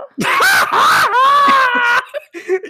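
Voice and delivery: a real, loud, high shriek of laughter. Real, not acted. Cracking up at self.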